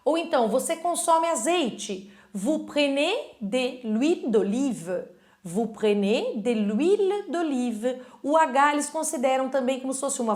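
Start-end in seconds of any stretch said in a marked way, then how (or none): 2.3-5.0 slow model sentence. Shown as a demonstration. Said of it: "teacher models slow French". 5.4-8.0 slow model sentence. Shown as a demonstration. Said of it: "teacher models slow French".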